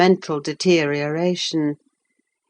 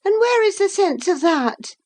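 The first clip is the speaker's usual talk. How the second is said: peevish. Acted. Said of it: "in a peevish tone".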